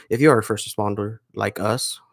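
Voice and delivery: a hint of radio announcer; lightly polished radio-intro read. Shown as a demonstration. Addressing fellow first responders in the show intro, light radio voice. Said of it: "let me put on my radio voice".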